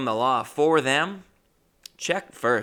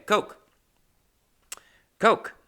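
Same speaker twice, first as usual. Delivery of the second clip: excited; 10 semitones higher, 4 dB louder than usual. Real, not acted. Savoring the coke.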